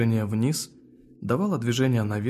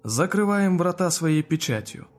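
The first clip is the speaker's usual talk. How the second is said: slow, loud, higher ritual chant; solemn incantation; 6 semitones higher, 4 dB louder than usual. A narrator's reading. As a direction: seal the gates with ceremony. Closing incantation.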